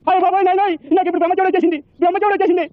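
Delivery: high mock lament; wailing. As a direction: wail it like a comic sufferer. Wailing about his misfortune. (ఏడుపు గొంతుతో వాపోవడం)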